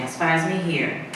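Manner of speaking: quiet gossiping murmur; hushed aside. Shown as a demonstration. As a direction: keep it hushed like a rumour. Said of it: "don't quote me".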